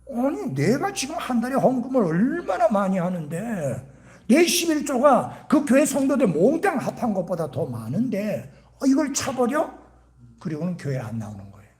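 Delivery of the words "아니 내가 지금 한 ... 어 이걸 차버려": acted huffy complaint, pitched up; indignant. Preacher acting out an offended church donor, indignant. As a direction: play an offended big giver protesting. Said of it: "이 사람이 뿔이 났어요".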